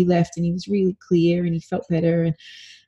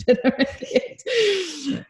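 tender laugh; 11 semitones higher, much slower than usual. Retold or imitated. Tender thought to her son.

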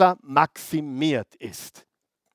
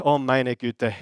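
Judas groaning; 4 semitones lower, 3 dB quieter than usual. Acted. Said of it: "denkt sich der Judas".

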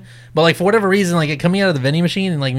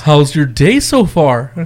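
very slow drawn-out question; slow baiting small talk; slow fake-casual probe; 2 semitones lower, much slower than usual. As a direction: drag it out to bait him. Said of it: "he's like".

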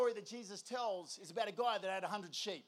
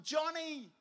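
higher, drawn-out mock call; last yell; 5 semitones higher than usual. Shepherd about to give up in the storm, calling out. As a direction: call the name one last time. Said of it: "He yells out".

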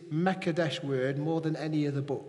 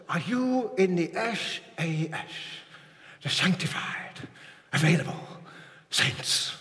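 Richard Parnaby. Retold or imitated. Repeating a preacher's catchphrase to the congregation, in impression. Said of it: "That's quite a good impression of him".

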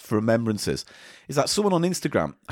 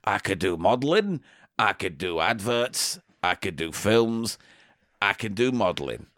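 put-on young woman voice; 3 semitones lower than usual. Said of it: "voice has changed".

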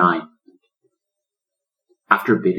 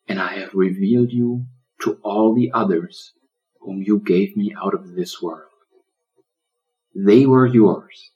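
1 prayer. Acted. Lion prays over turtle.

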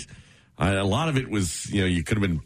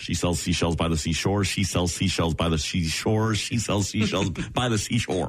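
three times fast; 5 semitones lower than usual. Shown as a demonstration. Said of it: "try it three times fast".

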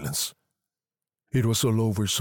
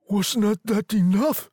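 raised, louder angry question; angry demand; 13 semitones higher, 5 dB louder than usual. A narrator's reading. Husband challenging his wife's idea, angry. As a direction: demand it angrily, pitched high. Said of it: "he demanded angrily".

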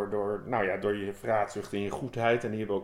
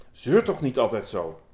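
louder, irritated brush-off; louder, irritated "stop nagging"; grumpy scolding; 5 dB louder than usual. Acted. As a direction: snap at the whiner to stop moaning. Gluttony scolds the goodness.

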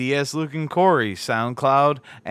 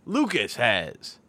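announcer voice. Pretend. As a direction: ring announcer calling the card. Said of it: "How's that for my announcer voice?".

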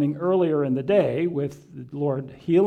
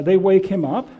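usual speaking voice

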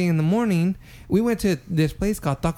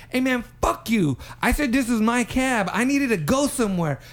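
high-pitched, indignant retelling of a yell; mock yell; 5 semitones higher than usual. Man yelling at the cab driver over the cab, mock yell. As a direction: imitate an angry man protesting, without real volume. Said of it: "this black guy is yelling at".

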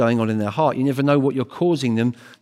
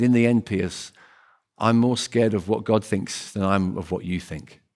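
kindly; 4 semitones lower than usual. Retold or imitated. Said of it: "he said it very kindly".

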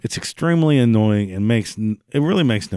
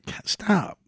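exasperated plea; 4 semitones higher, 4 dB quieter than usual. Retold or imitated. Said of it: "I'm just like".

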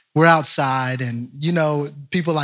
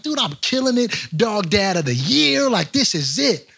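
high, mock-proud boasting; excited self-congratulation; 4 semitones higher than usual. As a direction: brag like a thrilled new dog owner. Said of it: "I'm excited".

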